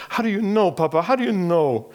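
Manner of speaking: put-on small boy's high, pleading voice; pleading child. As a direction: plead up high like a scared little boy. Boy pleads with his father.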